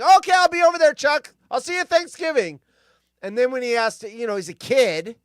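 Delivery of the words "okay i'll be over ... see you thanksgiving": put-on high, loud bossy kid voice; mock Peppermint Patty. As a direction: play the pushy girl inviting herself over. Peppermint Patty voiced in retold cartoon.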